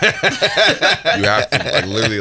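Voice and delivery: laughing, drawn out and loud. Real, not acted. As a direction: stretch it out through a laugh. Laughing exaggeration about leaving.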